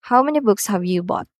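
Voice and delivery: quick question, dropping on "bought"; falling intonation. Shown as a demonstration. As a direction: bring the pitch down on "bought". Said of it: "are using falling intonation".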